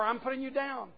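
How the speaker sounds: condescending. Retold or imitated. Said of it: "you're getting a message".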